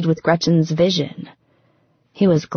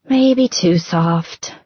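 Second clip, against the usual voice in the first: sighing; much slower than usual. Acted. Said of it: "she sighed against his skin".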